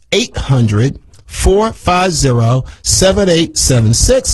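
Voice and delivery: slow the number down so listeners can note it. Shown as a demonstration. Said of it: "Let me say it a little slower for you".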